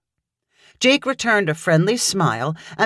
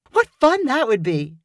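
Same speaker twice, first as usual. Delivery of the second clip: bright; 5 semitones higher than usual. A narrator's reading. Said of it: "Claire replied brightly".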